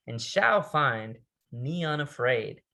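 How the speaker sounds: slow, deliberate quoted line; measured recitation; poem recital. Acted. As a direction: lean into each word like a vow.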